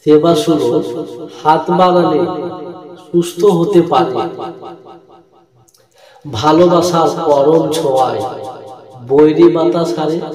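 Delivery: measured verse with long pauses; poem recitation. Acted. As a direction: recite phrase by phrase, drawing out the endings. (কবিতা আবৃত্তির ভঙ্গিতে)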